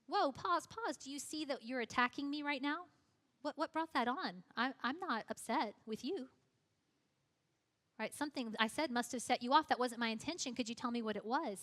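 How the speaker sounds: modeling a calm reply to an insult; calm de-escalation. Shown as a demonstration. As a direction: defuse the attack calmly. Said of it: "call them out on it and ask a question".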